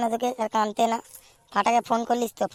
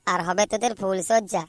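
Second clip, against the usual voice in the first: angry scolding. Acted. Friend scolds his whining buddy.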